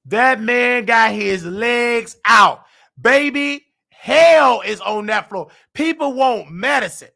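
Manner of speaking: slow, loud outraged shout. Real, not acted. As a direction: drag it out loud in disbelief. Outraged at the sleeping nurse.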